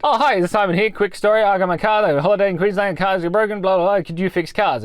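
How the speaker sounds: bright, rushed phone pitch; chirpy. Retold or imitated. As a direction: sell it cheerfully, a bit high.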